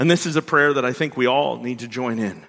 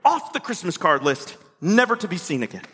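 huffy ultimatum; 6 semitones higher than usual. Retold or imitated. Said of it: "So we tell people".

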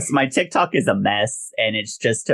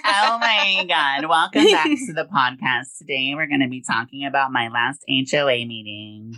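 put-on white girl voice; 5 semitones higher than usual. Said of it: "That's my white girl voice".

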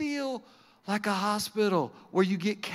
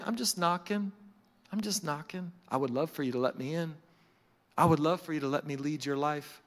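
softly voiced Jesus, tender and low; gentle pleading; 6 semitones lower, 5 dB quieter than usual. Jesus asking to be let in, gentle pleading. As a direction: invite them gently, without pushing.

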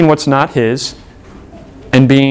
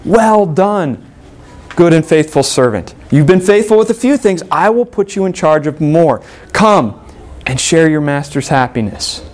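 joyful master. Acted. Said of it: "you can hear the excitement in the master's voice and the joy".

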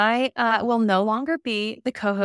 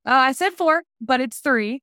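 surprised realization; 5 semitones higher, 5 dB louder than usual. Real, not acted. Realizing own miscount, amused.

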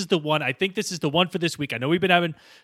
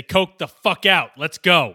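put-on New York accent; slower than usual. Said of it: "as New Yorkers would say".

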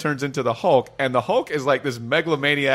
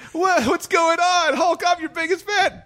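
much higher, shouting fanboy squeal; high excited fan voice. Retold or imitated. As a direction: squeal like a starstruck kid. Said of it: "Just like".

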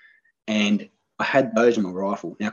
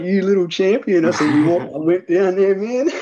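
high, loud burst of excitement; bursting with joy over the find; so excited; 10 semitones higher, 8 dB louder than usual. Real, not acted. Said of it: "Dude, I was so excited".

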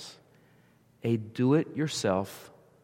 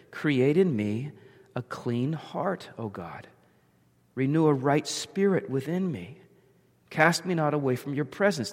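solemn scripture reading. Acted. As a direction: let each line of the prayer land. Reading the psalm slowly.

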